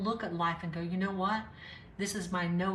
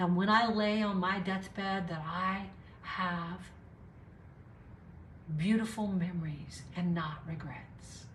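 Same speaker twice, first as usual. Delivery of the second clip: hushed, soft whispering. Talking to listeners with kids in the other room: whispering. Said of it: "And I'm whispering because I've got kids".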